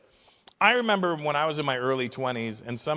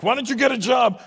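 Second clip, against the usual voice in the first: higher, louder angry parent yell; shouting dad; 8 semitones higher, 6 dB louder than usual. Retold or imitated. Comic parent yelling at the kid about a job, loud. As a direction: bark it like a fed-up father.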